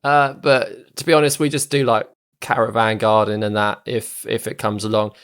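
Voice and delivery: lightly gravelly rough character voice; a touch of gravel in the throat. Acted. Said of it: "he's got such a gravelly voice as well".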